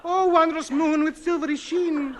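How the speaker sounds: grand, slow poem reading; poetry recital. Acted. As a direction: declaim the sonnet grandly. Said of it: "Sonnet by A H".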